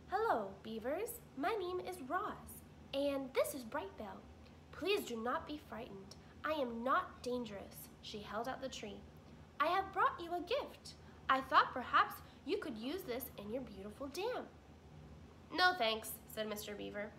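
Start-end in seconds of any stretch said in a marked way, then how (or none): 0.1-7.9 lightly raised, polite robot voice; a hint of a polite robot; robot Roz. 9.6-14.5 higher, polite robot offering a gift; polite robot voice, raised; robot Roz. Acted. 15.5-16.1 louder, curt refusal; stubborn beaver, louder; gruff beaver refusing. Acted.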